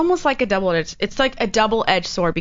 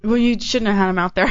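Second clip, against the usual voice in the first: mouth full. Real, not acted. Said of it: "eating a fucking muffin".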